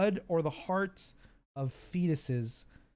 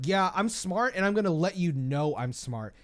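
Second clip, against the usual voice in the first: smug know-it-all. Retold or imitated. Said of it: "in, like, the most annoying way possible".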